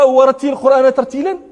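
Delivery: ورتل القرآن ترتيلا run off without careful recitation; recited without tartil. Retold or imitated. Teacher imitating an imam who ironically misreads this verse, careless recitation. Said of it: "على غير وجه الترتيل".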